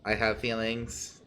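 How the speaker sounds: slow, mock-wounded robot voice; a robot insisting it has feelings. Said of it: "who wants to listen to a robot?".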